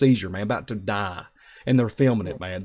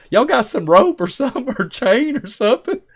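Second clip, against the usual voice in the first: much higher and louder call across the water; high, loud laughing shout to the barge; 10 semitones higher, 5 dB louder than usual. Retold or imitated. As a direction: holler for rope with a laugh breaking in. Calling out to barge crew.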